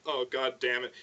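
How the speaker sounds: low, soft fed-up mutter; weary grumble. Retold or imitated. Vishnu looking down at the mess, low tired mutter. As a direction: grumble it under your breath.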